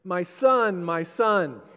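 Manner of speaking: drawn-out anguished cry to a son. Acted. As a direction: cry out slowly, calling a lost child. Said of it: "he cries out".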